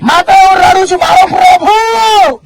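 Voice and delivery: Mary mourns her Lord at the tomb, tearful; Mary weeping. Acted. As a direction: grieve for the lost Lord. Preacher voices weeping Mary.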